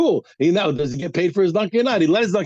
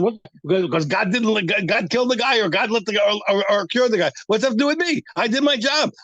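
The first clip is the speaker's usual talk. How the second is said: indignant defence; 3 semitones higher than usual. Retold or imitated. Voicing the worker's defence.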